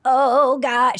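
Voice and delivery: hammed-up old lady groaning; imitating old lady's groan. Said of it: "she would be like".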